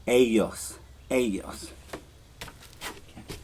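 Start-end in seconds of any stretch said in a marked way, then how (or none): 0.1-1.7 "ellos" with a soft Y sound, "eh-yos"; standard pronunciation. Shown as a demonstration. Teacher giving students the common form. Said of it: "For the rest of the world, it's".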